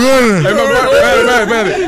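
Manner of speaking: words round a bite of food; mouth full. Shown as a demonstration. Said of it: "decirlo con la boca llena".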